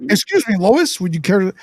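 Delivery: lightly goofy, polite voice; a hint of bumbling politeness; Clark Kent. Clark Kent politely addressing Lois, lightly goofy. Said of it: "he's goofy".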